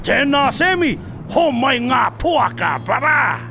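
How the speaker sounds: slow drawn-out hunting call. Real, not acted. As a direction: call across the bush to a mate. Calling out to Sam the hunter.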